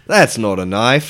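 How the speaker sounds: Australian accent, Crocodile Dundee line. Shown as a demonstration. Friends push him to redo the line in Australian accent. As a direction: take your time with the Australian accent. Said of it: "We'll give you another shot".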